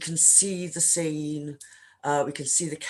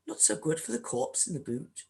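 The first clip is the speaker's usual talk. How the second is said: put-on a self-confessed clumsy Scottish accent; bad Scottish accent; 3 semitones higher than usual. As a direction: try a Scottish accent, hammed a little. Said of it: "imagine a much better Scottish accent".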